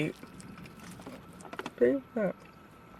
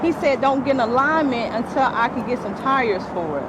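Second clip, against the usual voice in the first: upset; 7 semitones higher, 4 dB louder than usual. Real, not acted. Upset customer explaining unsafe car.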